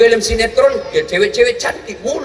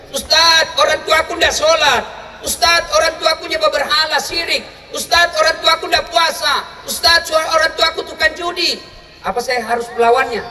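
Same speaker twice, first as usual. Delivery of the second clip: mock young student; 5 semitones higher than usual. Student asking the cleric.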